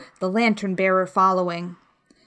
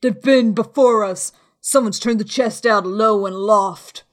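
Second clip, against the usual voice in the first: raised, urgent pirate call; crying out news; 5 dB louder than usual. A narrator's reading. Man at window to beggar on road, calling down. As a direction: report it loudly to someone below. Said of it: "he cried".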